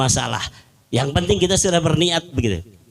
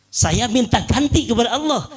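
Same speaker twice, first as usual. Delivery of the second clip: higher, stressed on ganti; raised, insistent second take; emphatic repeat; 6 semitones higher than usual. Retold or imitated. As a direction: repeat it with conviction. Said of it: "Dia bilang".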